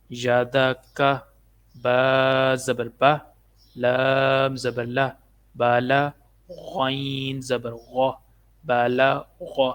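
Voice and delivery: slow, drawn-out letter-by-letter drill; measured Qaida teacher's recitation; spelling drill recitation. Shown as a demonstration. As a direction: intone each letter, then its syllable. Drills spelling out Quranic syllables.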